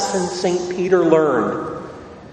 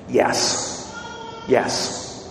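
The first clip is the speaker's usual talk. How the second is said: a soft whispered affirmation to the congregation; whispered yes; 4 semitones lower, 6 dB quieter than usual. Acted. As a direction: whisper "Yes" twice, breathy and unvoiced. Answering his own question softly.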